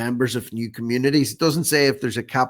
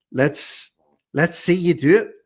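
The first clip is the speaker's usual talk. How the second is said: loud taunt; 6 semitones higher, 4 dB louder, slower than usual. Real, not acted. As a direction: raise the voice and dare him to do it. Taunting the politician to walk.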